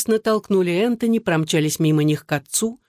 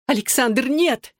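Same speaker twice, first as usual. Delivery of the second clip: rising, much higher, desperate cry of no; pleading shout; 7 semitones higher, slower than usual. A narrator's reading. Wife rushing at her husband to stop him, a high desperate cry. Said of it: "кричала Татьяна".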